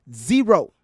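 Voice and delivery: a single word hit hard and loud; flat, loud dismissal; emphatic repeat. Real, not acted. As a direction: slam it down as the final word.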